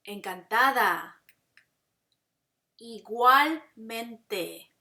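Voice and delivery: slow, deliberate phrases with drawn-out syllables; repeat-after-me model. Shown as a demonstration. Teacher has students repeat after her, slow and deliberate. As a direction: say each phrase slowly for learners to echo. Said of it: "You should repeat after me".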